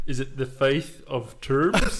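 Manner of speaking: slow laughing mispronunciation; drawn-out giggly mangled phrase. Real, not acted.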